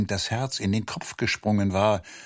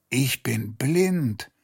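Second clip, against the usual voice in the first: groaning; 4 semitones higher, much slower than usual. Acted. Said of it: "stöhnte er".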